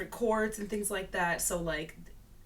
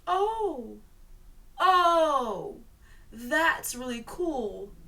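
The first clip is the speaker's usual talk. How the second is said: awed; 3 semitones higher, 3 dB louder than usual. Retold or imitated. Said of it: "And I was like".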